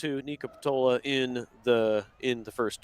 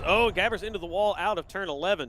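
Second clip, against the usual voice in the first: higher-pitched live exclamation; excited crash call; 4 semitones higher, faster than usual. Real, not acted. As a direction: jump in as the car hits the wall. Live crash called mid-sentence.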